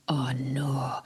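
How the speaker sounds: breathless whispered oh no; a hushed, sinking whisper; dismayed whisper. Retold or imitated. Retold dismay at the fenced bridge.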